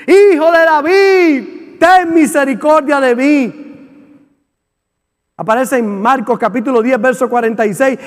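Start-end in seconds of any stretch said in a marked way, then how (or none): 0.1-3.6 crying out. Acted. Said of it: "Le gritaba a Jesús".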